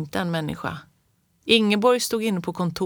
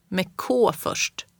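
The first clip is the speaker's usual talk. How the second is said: hushed correction; much slower than usual. Acted. Grandma corrects child, quiet.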